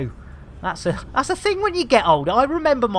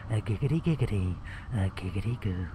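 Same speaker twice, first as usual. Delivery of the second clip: 1 Quagmire impression; 13 semitones lower, 10 dB quieter, faster than usual. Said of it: "with Quagmire, from Family Guy".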